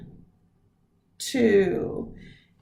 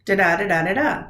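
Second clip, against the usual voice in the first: three da-DA beats, each second "da" stressed; iambic beat; faster than usual. Shown as a demonstration. Teacher sounding out Dickinson's three-beat line, in iambic rhythm. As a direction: chant "da-da" three times, weak then strong. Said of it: "her poetry sounds like".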